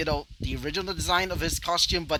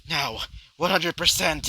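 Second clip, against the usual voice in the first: mildly raised battle cry; a restrained yell, louder than talk; screamed out; 2 semitones higher, 5 dB louder than usual. Acted. Hero charging up his fist, mild battle yell. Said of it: "as he screamed out".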